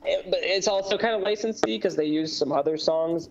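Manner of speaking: muffled, mic covered by hand; talking with a hand over the mic; finger over the mic. Real, not acted. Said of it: "You're covering your mic".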